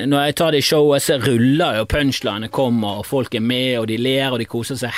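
normal talking voice

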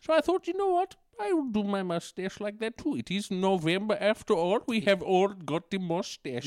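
lightly voiced accented dictator dishing out fashion advice; Mister Addy. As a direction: play a chatty accented dictator on a fashion show.

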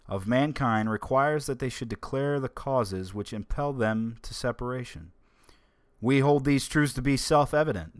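measured, solemn reading of a founding document; formal reading. Acted. Host reading the Declaration of Independence aloud to listeners, solemnly. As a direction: read it like a proud ceremonial recital.

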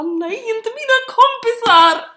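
high, loud, slow, whiny pleading; mock pleading. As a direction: beg like a horrified teen. Retold pleading. (hög, gnällig låtsasvädjan)

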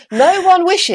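loud, high indignant mock protest; high excited protest. Real, not acted. Teasing her co-host about her voice, high mock outrage. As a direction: protest loudly, high and playful.

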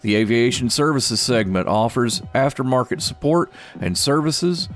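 upbeat business news read; brisk announcer reading stock picks; radio market report. Acted.

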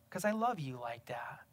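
whispered tenderly, barely voiced. God whispering love to Tim, tender whisper. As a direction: breathe it softly like a loving secret.

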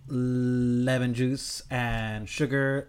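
slow, drawn-out Homer delivery; Homer Simpson style. Real, not acted. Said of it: "not in the voice of Homer, but in the style of Homer".

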